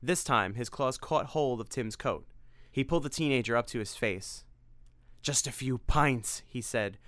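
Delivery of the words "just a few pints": drooling vampire. Acted. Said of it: "drool splashing down onto his collar".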